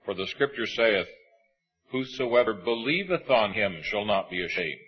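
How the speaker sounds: measured, solemn reading of scripture. Acted. Preacher reading Romans to the congregation, solemn and measured.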